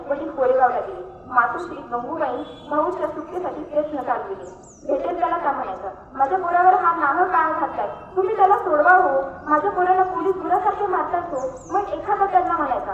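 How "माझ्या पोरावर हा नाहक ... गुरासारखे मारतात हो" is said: a mother's anguished plea, pushed loud; pleading mother. Acted. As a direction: beg the stranger to free her son. Mother begging for son's release.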